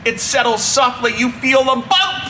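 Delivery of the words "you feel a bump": plain reading voice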